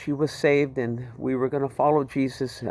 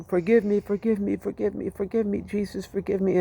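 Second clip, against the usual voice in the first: retold sobbing; 4 semitones higher, 3 dB quieter than usual. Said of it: "I just started sobbing".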